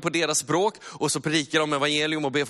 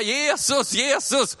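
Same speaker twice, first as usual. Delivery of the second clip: calling out; 10 semitones higher, much slower than usual. Retold or imitated. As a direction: call out to Jesus, begging. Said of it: "börjar han sitta och ropa".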